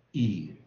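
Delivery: "ear" as a vowel with the final R dropped; British ear without R. Shown as a demonstration. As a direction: say "ear" leaving the R unsounded. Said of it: "你不要把这个R写出来". (英式 "ear"，去掉儿音)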